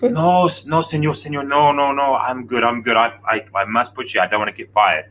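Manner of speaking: imitated Mexican accent, protesting insistently; Mexican Spanish accent. Wheelchair pusher refusing passenger's help, in an imitated Mexican accent. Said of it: "talking to me in her Mexican, Spanish accent".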